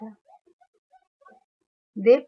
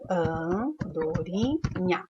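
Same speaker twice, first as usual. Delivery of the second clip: slow syllable by syllable; 2 semitones lower, 4 dB quieter, much slower than usual. Shown as a demonstration. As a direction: stretch out an-do-ri-nha slowly, syllable by syllable. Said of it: "Tem dígrafo na palavra andorinha?". (Andorinha dita devagar, sílaba por sílaba)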